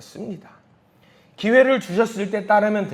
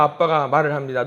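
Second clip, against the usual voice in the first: ordinary talk, nothing marked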